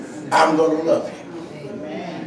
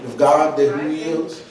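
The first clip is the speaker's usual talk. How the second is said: softer, lower, intimate sermon talk; quiet low preaching; 4 semitones lower, 7 dB quieter than usual. Acted. Preacher speaking softly to the room about quitters. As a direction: pull them in close, speak it low.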